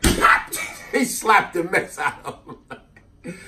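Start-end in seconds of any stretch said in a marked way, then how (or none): 0.0-0.5 sharp slap noise; slap sound. Retold or imitated. Imitating the slap in the car, a sharp smack. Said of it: "She was like".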